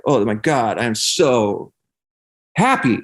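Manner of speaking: giddy joy. Retold or imitated. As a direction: burst into delight on the last word. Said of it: "it was this, like".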